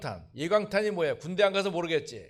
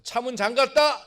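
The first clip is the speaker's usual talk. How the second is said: slow, loud, pitched up; loud slow call; 6 semitones higher, 7 dB louder than usual. Shown as a demonstration. Pastor models shouting that the car is locked, loud and slow. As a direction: declare it out loud deliberately. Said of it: "이렇게 소리를 질러라".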